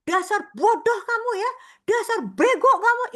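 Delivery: loud, high insulting shout; crushing scolding. Retold or imitated. Parent insulting the child as stupid, loud and high. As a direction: berate the child harshly.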